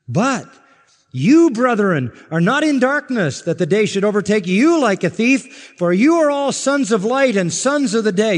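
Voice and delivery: soaring preacher's declamation; preaching at full force. Acted. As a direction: proclaim it to the congregation at full voice.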